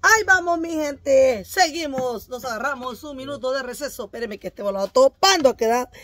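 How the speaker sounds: shouting workout presenter; loud workout host. Acted. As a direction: call it out to the viewers.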